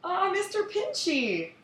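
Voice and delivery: high, slow cartoon voice; slow goofy cartoon dad; Homer Simpson impression. Cartoon voice for Mister Pinchy.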